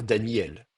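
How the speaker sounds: "Daniel" run together as Da-nyel; lazy glide. Shown as a demonstration. Teacher offers the lazy option, gliding "Daniel". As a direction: glide straight from i to e in "Daniel", no stop. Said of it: "si je suis un petit peu feignant".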